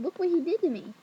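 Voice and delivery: acted-out tattling yell; retold upset cry. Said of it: "I started screaming".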